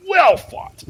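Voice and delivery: high, loud shouted cheer; crowd shout. Acted. Lords in the stand cheering the prince, loud shout. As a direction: roar it from the stands.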